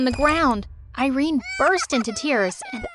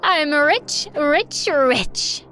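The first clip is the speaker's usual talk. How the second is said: gloating glee. Acted. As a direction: crow about the money. Mom gloating leaving daughter.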